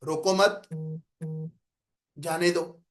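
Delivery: "روکو مت" together, long break, then "جانے دو"; two units split after مت; pause after مت. Shown as a demonstration. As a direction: keep مت attached to روکو and pause before جانے دو. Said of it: "ایک لہجہ میرا یہ ہے".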